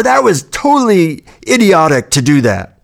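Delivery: mild mock yelling, like a scolding parent; lightly voiced berating parent; abusive parent. Inner voice berating the speaker, mildly imitated abusive parent. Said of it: "like somebody was yelling at me".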